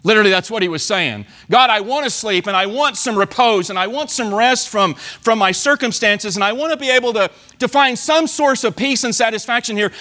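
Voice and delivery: mild pleading prayer to God; pleading psalmist. Retold or imitated. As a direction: lightly voice the weary psalmist begging for rest. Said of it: "He's saying, he's saying to God".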